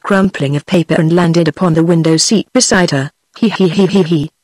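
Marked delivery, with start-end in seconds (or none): 3.4-4.3 a lightly voiced monkey's he-he chatter; monkey chattering laugh. A narrator's reading. Monkey chattering at the girl, a light he-he giggle. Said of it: "chattered the creature".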